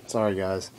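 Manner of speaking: whispered apology. Real, not acted. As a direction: drop to a whisper. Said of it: "I'm a little tipsy".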